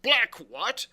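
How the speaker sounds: high, loud query; loud disbelief. Acted. Silver asks the boy for the name, incredulous. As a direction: ask it as if astonished, loudly.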